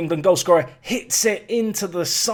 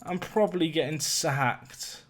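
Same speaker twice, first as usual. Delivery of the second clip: quiet resignation; 6 dB quieter, slower than usual. Real, not acted.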